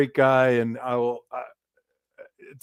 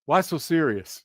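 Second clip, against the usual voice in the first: mock Joker line; 2 semitones higher than usual. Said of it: "it was the equivalent of".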